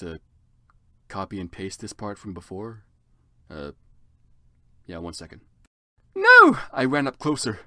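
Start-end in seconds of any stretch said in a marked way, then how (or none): 6.1-6.6 loud, high cry; high frantic no; alarmed shout. Acted. Running up in alarm.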